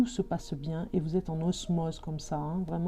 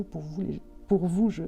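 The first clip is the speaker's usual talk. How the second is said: stuttering. Real, not acted. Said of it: "j'en bégaye".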